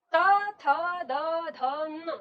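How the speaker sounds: "त, थ, द, ध, न" with the tongue touching the teeth, one by one; reciting consonants. Shown as a demonstration. Teacher to class: dental row, each sound clearly spaced. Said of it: "तब इन पांचों वर्णों का उच्चारण करते हैं".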